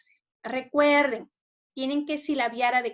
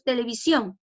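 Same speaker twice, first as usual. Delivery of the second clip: "televisión" with the final SIÓN held firm; stress on SIÓN. Shown as a demonstration. Teacher checking it with pupils, stress on SIÓN in "televisión". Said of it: "Aquí está subrayada en sion".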